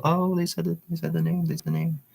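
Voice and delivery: high, breathless excitement at hearing the name; thrilled aside. Real, not acted.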